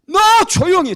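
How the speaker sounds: very loud, high angry shout; full-force scolding yell, replayed; re-enacted bellowing rebuke. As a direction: act out losing patience with a heckler. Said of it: "막 내가 막 그렇게 호통치고".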